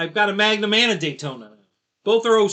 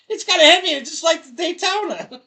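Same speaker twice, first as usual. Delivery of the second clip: higher, louder, hammed-up repeat of the Hemi line; mock repeat; 11 semitones higher, 5 dB louder than usual. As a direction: replay the punchline laughing.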